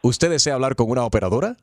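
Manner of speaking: lightly done automated recording; phone menu voice. Acted. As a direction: read it like a robocall message. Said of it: "llamada automatizada".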